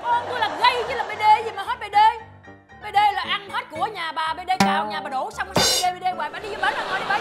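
high-pitched, loud angry protest; indignant retort. Acted. Mother defends her son against neighbour's remark, indignant. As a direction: snap back, outraged for the son.

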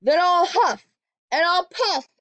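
wolf shouting at the brick house, loud and high. Acted. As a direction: roar the threat like a hungry wolf. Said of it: "shouted the wolf".

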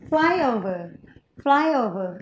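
"Flyover" stressed on FLY; first-syllable stress. Shown as a demonstration. Teacher models the word for students, first-syllable stress. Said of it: "Số nhất".

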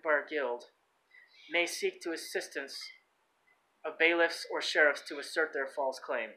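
even read-out of a legal text; reading aloud. Real, not acted. Man reading court presumptions to listeners, read-aloud delivery. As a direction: read the document out steadily, clause by clause.

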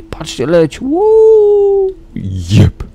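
high, loud whoop of delight; excited shout. Real, not acted. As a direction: cheer it out at the top of your voice. Cheering as the dragon flies.

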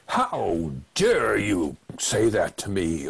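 slow, indignant emphasis; acted affronted outburst, leaning on the words; snapping back. Attacking a partner who said something hurtful, snapping back. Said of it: "you can snap back at that person".

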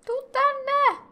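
high, bright call to a dog; high pet call. Real, not acted. Player calling her pet dog over, high call. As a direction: sing it out to bring the puppy over.

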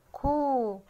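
long, held كو with rounded lips; rounded damma sound. Shown as a demonstration. Teacher showing a child the damma, drawn-out rounded كو. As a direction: stretch كو into one long "koo". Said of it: "كاف عليها ضمة".

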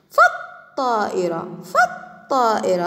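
fa runs into doubled ṭ in فالطائرة; hamza dropped. Shown as a demonstration. Teacher showing the hamza is written but unspoken, hamza dropped. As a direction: model فالطائرة as "faṭ-ṭā'ira", initial hamza silent. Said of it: "لم تلفظ الهمزة ولكن كتبت".

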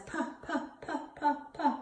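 "Puh" in short popped puffs; letter sound demo. Shown as a demonstration. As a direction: pop out "Puh" five times, evenly. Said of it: "Pee Wee Penguin says".

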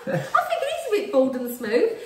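high, slow, giggly remark; laughing tease. Real, not acted. Woman teasing partner about bald patch, laughing. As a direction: tease through the tail of a laugh.

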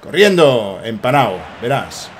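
ordinary talk

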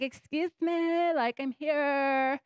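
slightly hammed-up sarcastic complaint; mock indignant. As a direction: drag it out like an offended diva. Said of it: "And I'm like".

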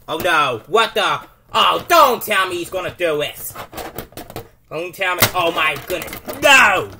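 loud alarmed play-by-play; shocked commentator. Pretend. Announcer sees a surprise attack, shocked. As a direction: react like it's a disaster.

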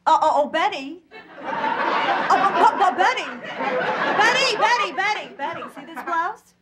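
snooty shopper gushing to Betty in lockjaw; lockjaw society voice. Acted. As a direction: mouth drawn down, lockjaw Bloomingdale's drawl. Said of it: "they all talk like this".

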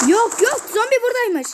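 surprised. Real, not acted. Zombie suddenly appears.

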